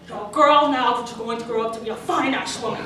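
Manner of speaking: mock suave Scottish movie star; lightly put-on Connery accent; Sean Connery. Star with a cigar complimenting a girl, lightly imitated suave voice. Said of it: "someone like Sean Connery".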